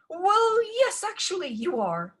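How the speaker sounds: high, wavering stepmother; flustered stepmother. A narrator's reading. Stepmother admits Ella must cook, high and nervous. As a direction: blurt it out nervously.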